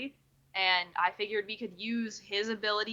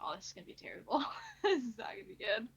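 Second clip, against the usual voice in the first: nervous laugh; 2 semitones higher, 8 dB quieter, faster than usual. Real, not acted. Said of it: "make a persuasion check".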